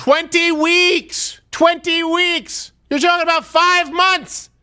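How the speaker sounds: high-pitched, drawn-out cry of disbelief; outraged exclamation. Real, not acted. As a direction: hammer it out slowly, incredulous and high. Outraged rant about the abortion limit.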